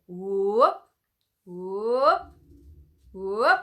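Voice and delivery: loud rising whoop. Shown as a demonstration. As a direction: whoop from the belly, sliding up. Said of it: "the whoop".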